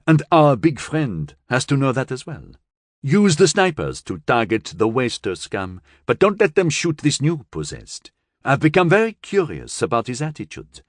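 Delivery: curious strategist giving crisp orders; Western Europe. Acted.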